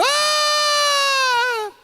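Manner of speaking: put-on sudden high yelp of a boy falling; a child's high shriek mid-fall; falling scream. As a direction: cry out as the ground gives way. Falls into the cistern.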